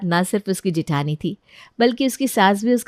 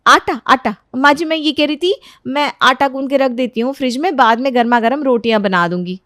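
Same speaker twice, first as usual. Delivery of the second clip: higher voice, blurting an excuse; flustered daughter-in-law, covering up; 4 semitones higher, 4 dB louder than usual. Acted. Daughter-in-law explains the dough to mother-in-law, high and flustered. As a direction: improvise a nervous excuse.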